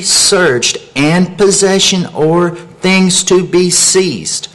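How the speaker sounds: slow, emphatic reading of a legal text; formal reading aloud. Real, not acted. Citizen reading Amendment four to officials, slow and emphatic. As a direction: read it out deliberately, word by word, building in emphasis.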